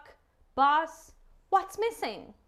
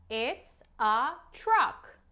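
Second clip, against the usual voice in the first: put-on very slow, stretched for a child; slow model word; 2 semitones lower, slower than usual. Shown as a demonstration. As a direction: say it slowly so a toddler copies.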